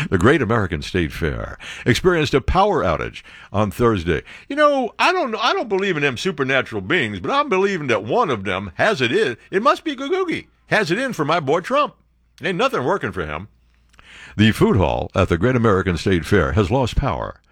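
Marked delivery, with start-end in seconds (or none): 4.5-13.5 lightly voiced folksy believer; hammed-up folksy Trump fan; mock Trump supporter. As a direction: play a superstitious loyalist defending his boy. Plays a superstitious Trump supporter.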